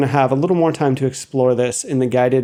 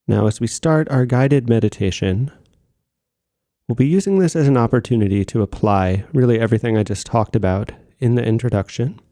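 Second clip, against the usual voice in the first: measured meditation-guide voice with long pauses; composed meditation instruction, pausing between phrases; guided meditation; 3 semitones lower than usual. Acted. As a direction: settle listeners into practice, phrase by phrase. Begins leading the guided meditation.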